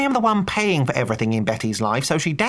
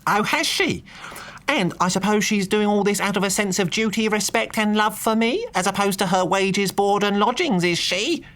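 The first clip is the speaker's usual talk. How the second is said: mock shouting lord; 11 semitones higher than usual. A narrator's reading. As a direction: bellow the sarcasm at the maid. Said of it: "He delivered this at top volume".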